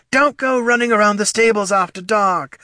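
high, whiny mock of a fussy father; mocking older man. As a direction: nag like a disapproving dad. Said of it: "unflattering impression of an older man".

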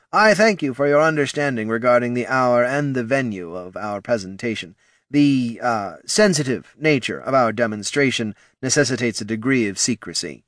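bow and scrape with your voice; obsequious technician. Acted. Technician addresses the king.

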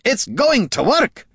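high, slow, drawn-out cry of triumph; excited insistence. A narrator's reading. Gorm shaking the bard, high and drawn out. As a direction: stretch it out, bursting with conviction. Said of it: "shaking vigorously".

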